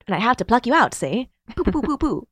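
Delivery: mock mid-Atlantic with silly gun noises; forties mid-Atlantic accent. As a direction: play a forties mid-Atlantic film tough, firing pretend shots. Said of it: "like, a mid-Atlantic".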